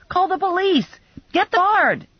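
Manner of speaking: high, urgent yell. A narrator's reading. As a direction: call out in alarm. Yelling for help in lobby.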